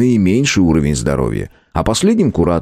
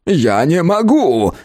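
higher, slow frightened cry; pleading fear; 9 semitones higher, much slower than usual. Acted. Shopkeeper refuses Conan, high and panicked. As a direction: beg off in panic.

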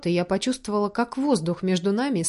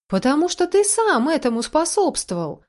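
angry cry; 8 semitones higher than usual. A narrator's reading. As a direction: cry out the accusation, pitch jumping up. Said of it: "закричала я". (сердитый выкрик высоким голосом)

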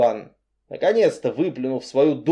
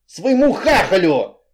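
gruff snap; 6 semitones higher, 5 dB louder than usual. Acted. Thug snaps back.

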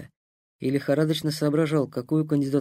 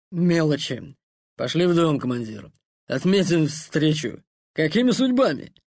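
tipsy soldier rambling; drunk rambling toast; 2 semitones higher than usual. Acted. Drunk Gleb inviting colonel inside.

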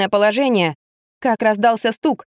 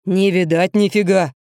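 gruff bloke; 2 semitones lower than usual. A narrator's reading. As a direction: flatly state it like a dim tough guy. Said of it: "констатировал парень".

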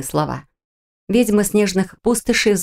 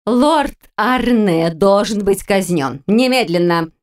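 interrupting demand; 3 semitones higher, slower than usual. Acted. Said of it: "перебила его алмазная ведьма".

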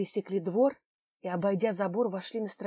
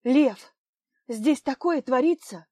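alarmed call; 5 semitones higher, 8 dB louder, slower than usual. Acted. Nadezhda calls Lev in alarm.

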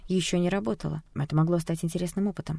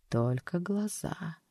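stern; 3 semitones higher, 6 dB quieter, much slower than usual. Acted. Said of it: "строго напомнил".

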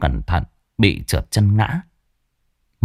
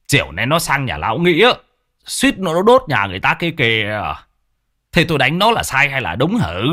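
grim father; 4 semitones higher than usual. Acted. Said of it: "mặt hầm hầm".

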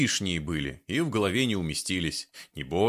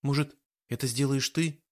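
higher, hopeless plea; 5 semitones higher than usual. A narrator's reading. Girl hopelessly asks the man to do it instead. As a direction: ask knowing the answer is no. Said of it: "безо всякой надежды спросила она".

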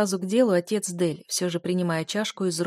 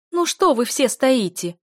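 louder and higher, slow furious roar; 6 semitones higher, 7 dB louder than usual. A narrator's reading. Duchess roaring at frozen servants, furious. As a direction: bellow at the idle servants. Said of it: "взревела она".

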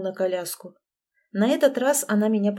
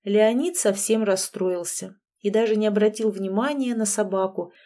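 ordinary delivery, nothing marked

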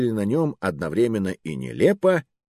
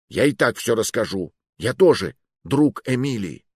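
higher, louder, red-faced; furious tirade; 4 semitones higher, 3 dB louder than usual. Acted. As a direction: berate the guards. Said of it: "Служащий побагровел".

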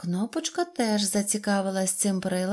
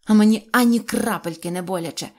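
mild laughing shout; 6 dB louder than usual. Acted. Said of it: "регочучи на все горло".

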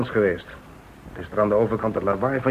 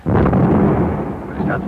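alarmed whisper; 3 dB louder, much slower than usual. Acted. Hears a noise at night.

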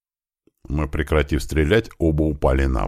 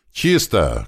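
mild acted call-out; Кирпич shouting. Fighter reporting to the team after the attack, mild shout. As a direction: report the all-clear with a contained shout. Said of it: "крикнул Кирпич".

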